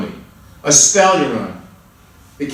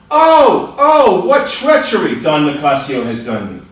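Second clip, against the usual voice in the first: anguished cry; 4 dB louder than usual. Acted. Betrayed barber lamenting to the judge, anguished.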